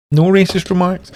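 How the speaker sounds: high loud repeat, "racist" punched; indignant denial. Real, not acted. Repeating his denial to Ronnie, loud and high. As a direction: hammer the denial again, up high.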